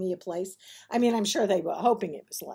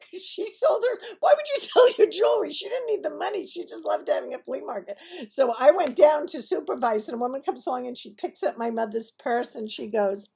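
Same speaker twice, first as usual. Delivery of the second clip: usual speaking voice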